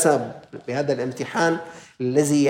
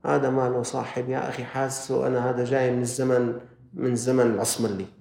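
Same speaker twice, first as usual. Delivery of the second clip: mocking student; 4 semitones lower, 3 dB quieter than usual. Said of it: "بيقول لك".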